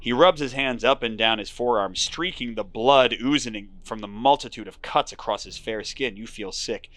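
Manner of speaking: steady storyteller read; moody game narration; story narration. A narrator's reading. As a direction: draw the listener into the fog. Narration continues.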